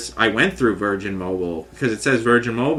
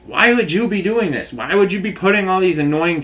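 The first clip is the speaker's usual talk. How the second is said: higher, bewildered pleading questions; pleading to God; 6 semitones higher than usual. Retold or imitated. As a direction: plead upward, baffled and hurt. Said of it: "but I'm like".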